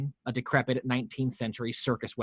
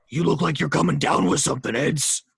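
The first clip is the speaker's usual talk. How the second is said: taunting hobo; 4 semitones higher, 5 dB louder than usual. Acted.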